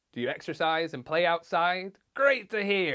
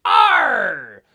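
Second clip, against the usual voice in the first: happy pirate "arr", loud and drawn out; happy pirate yell; 4 semitones higher, 13 dB louder than usual. Shown as a demonstration. Pirate showing how a happy arr sounds, cheerful long yell. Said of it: "So if we're happy".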